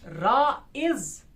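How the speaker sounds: राइज drawn out, weight on its second part; राइज broken up to show a strong ending; weak-strong stress. Shown as a demonstration. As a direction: stretch राइज slowly in two beats. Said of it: "दूसरा strong हो रहा है".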